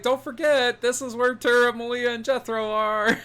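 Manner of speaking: high mock voice. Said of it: "I was like".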